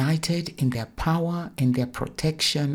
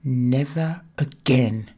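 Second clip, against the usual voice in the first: strong and clear; 4 dB louder than usual. Acted. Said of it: "voice dropped a couple of decibels, but she was still strong and clear".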